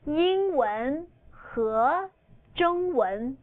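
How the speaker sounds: very slow, each syllable drawn out for learners; slow model phrase. Shown as a demonstration. Teacher slowing down for students to repeat. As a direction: spell it out slowly so students can follow. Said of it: "Now say English and Chinese".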